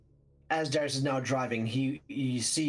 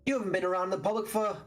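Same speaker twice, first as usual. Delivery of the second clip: higher, sharp angry telling-off; angry scolding; 7 semitones higher than usual. Acted. Darius turns in the car to scold Ambrose, angry and high. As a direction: tear into him, pitched up high.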